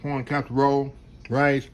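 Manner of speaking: naming food while chewing; mouth full. Real, not acted. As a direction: talk round a mouthful. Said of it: "I need to talk with my mouth full".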